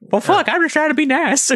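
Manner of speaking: high echoey voice inside a head; echoing under a bridge. Acted. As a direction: speak as if echoing in a hollow space. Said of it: "It's really echoey in here".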